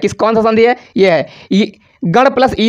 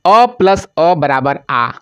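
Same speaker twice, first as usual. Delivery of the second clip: slow rule recital; 4 semitones lower, slower than usual. Shown as a demonstration. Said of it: "teacher states the rule slowly".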